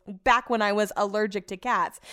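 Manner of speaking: sceptical quoting, a little firmer; mildly mocking quotation of a dubious claim; audible air quotes. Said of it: "quote, air quotes".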